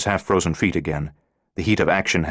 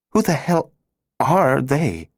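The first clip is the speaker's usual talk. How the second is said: frightened outburst; 8 semitones higher, slower than usual. Acted. Laura frightened, demanding.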